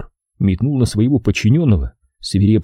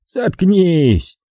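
curt order at a raised pitch; gruff dismissal; 9 semitones higher than usual. A narrator's reading. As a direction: cut him off irritably. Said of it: "буркнул тот". (раздражённо буркнуть, оборвать)

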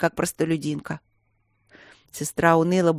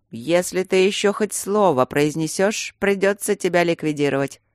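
ominous; 3 semitones higher than usual. Acted. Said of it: "зловеще предупредил Тидус".

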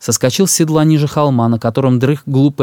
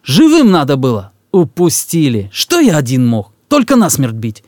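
angry rebuke; 2 semitones higher than usual. Acted. Emarkhan rebukes the Cossacks.

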